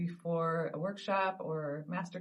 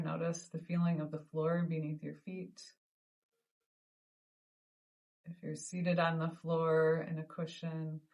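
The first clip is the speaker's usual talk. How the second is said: calm, measured meditation guide with long pauses; guided meditation. Acted. Teacher leading listeners through the ball of light technique, guided meditation. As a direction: gently guide them through each breath, unhurried.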